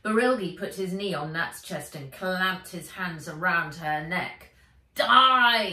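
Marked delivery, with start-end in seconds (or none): 4.9-5.7 shouted. A narrator's reading. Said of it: "he said".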